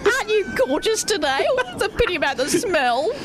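high, campy drag voice; sweet then cutting diva; Dame Edna. Acted. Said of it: "We're all gonna do a Dame Edna".

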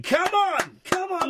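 high, urgent mock cheer. Host imitating women urging baby to crawl, cheering on. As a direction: egg the baby on, high-pitched. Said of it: "cheering the baby on, going".

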